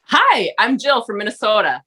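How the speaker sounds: Jill's own Minnesota accent, on request. Shown as a demonstration. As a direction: say it the Minnesota way, as the producers heard it. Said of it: "can you just say, so we can hear it".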